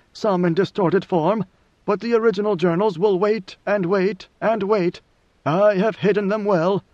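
lightly voiced ruler listing his legacy; God Emperor, deliberate. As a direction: set it out piece by piece, solemnly.

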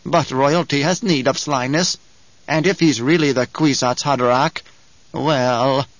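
a hint of a wheezy old witch; knowing old woman voice; lightly voiced old crone. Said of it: "Her voice wheezed and twanged".

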